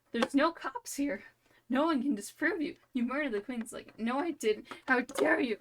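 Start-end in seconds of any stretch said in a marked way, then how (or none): 0.1-3.6 mock accusing. Accuser pressing the charge. 4.0-5.6 mock indignant denial. Accused denies indignantly.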